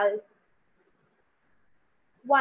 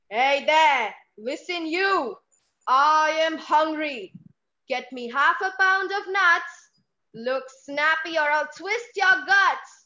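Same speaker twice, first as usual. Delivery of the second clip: tummy voice shouting. Acted. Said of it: "It shouted".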